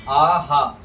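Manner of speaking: आहा as "aa-haa"; echoed long vowel. Shown as a demonstration. Teacher corrects students, आहा with a full "haa" ending. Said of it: "ऐसे बोलेंगे, ह नहीं बोलेंगे".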